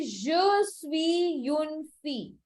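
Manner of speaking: slow French model. Shown as a demonstration. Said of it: "I will say".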